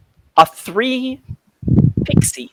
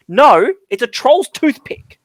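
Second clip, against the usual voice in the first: pixie voice; 7 semitones higher, 4 dB louder, slower than usual. Acted. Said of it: "the other one says".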